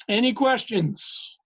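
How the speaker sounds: hoarse, scratchy voice. Real, not acted. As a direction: speak through a scratchy throat. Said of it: "my scratchy voice".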